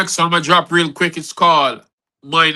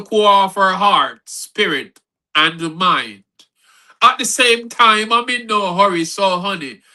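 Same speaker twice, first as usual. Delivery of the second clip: measured spoken-word reading with lifted phrase openings; poem recital. Acted. Poet reading from a book to listeners, poem recital. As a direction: recite it line by line in rhythm. Reads own poem aloud.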